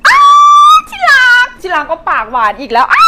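high, loud laughing squeal rising at the end; giggly shriek. Acted. Flattered by sweetheart, laughing shriek in the shop. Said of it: "ถ้าจะกรี๊ดก็ไปกรี๊ดข้างนอก".

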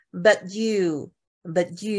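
don't pop the t in But; light t. Shown as a demonstration. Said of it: "是很轻的".

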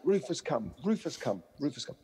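repeated mock dog call, fading; half-hearted shouted command; retold shout. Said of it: "And he'd shout".

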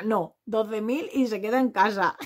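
slow line laughed through; laughing mock reply. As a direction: quote the contestant while cracking up. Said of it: "Y la otra".

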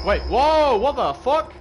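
startled yelp, high and loud; jolted by a sudden scare; scared horror game streamer. Real, not acted.

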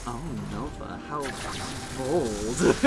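mock gasp. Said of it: "I just went like".

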